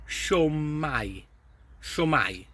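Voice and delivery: Shwmai as shoo-my, stress on the first syllable; teacher modelling southern Welsh greeting. Shown as a demonstration. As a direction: say Shwmai slowly and clearly for learners. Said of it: "use the word shwmai".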